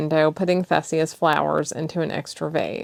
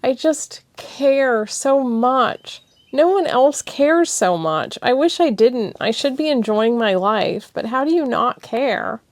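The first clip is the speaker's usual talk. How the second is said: higher, slow, upset; tearful; 8 semitones higher, 5 dB louder than usual. Acted. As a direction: plead with heavy heart. Thessia upset.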